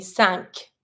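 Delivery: cinq ending in a clear k; sounded final Q. Shown as a demonstration. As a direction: pronounce the Q at the end of cinq as k. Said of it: "you pronounce the Q".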